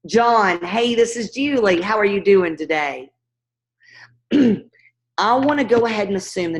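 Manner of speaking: upbeat phone greeting; friendly cold call opener. Shown as a demonstration. Caller greeting homeowner on the phone, upbeat and friendly. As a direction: open the call bright and easy. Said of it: "do it one more time".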